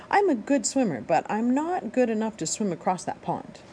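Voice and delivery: put-on childlike bird voice; young gosling voice. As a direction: play the small gosling, a bit worried. Gosling speaks.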